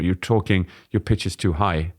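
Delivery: ordinary talk, nothing marked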